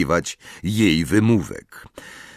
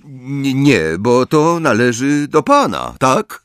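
higher-pitched, mildly angry comeback; blurted retort; 7 semitones higher, 4 dB louder than usual. A narrator's reading. Angry pupil lets a retort slip at Snape, blurted. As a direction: stumble in, then throw the question back. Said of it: "wypalił Harry".

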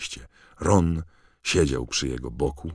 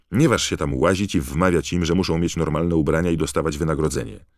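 angry; 3 semitones higher, 5 dB louder than usual. Acted. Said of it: "powiedział Fred ze złością".

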